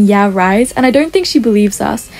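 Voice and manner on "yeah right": mildly sarcastic imitation; dry mock disbelief. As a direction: voice a doubter's sarcasm lightly. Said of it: "really sarcastically saying".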